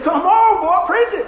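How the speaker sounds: high, loud preach-it shout; rousing church-style encouragement; excited urging. Retold or imitated. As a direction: egg him on at full voice. Retold cheering on his friend.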